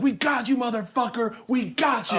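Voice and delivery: high, singsong gotcha; hammed-up high taunt; mock gloating. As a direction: imitate pranksters crowing at their victim. Pranksters crow at their victim.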